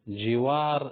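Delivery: جیوار said ji-waar, with an i after the j; جیوار with a clear i vowel in the first syllable; جیوار, the Arabic form, not Urdu jawar; correct Arabic jiwar. Shown as a demonstration. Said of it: "لیکن جیوار صحیح ہے".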